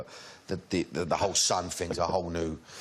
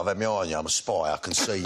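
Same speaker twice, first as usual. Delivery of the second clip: Cockney Bond; 3 semitones lower, faster than usual. Acted. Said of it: "let's play a scene here".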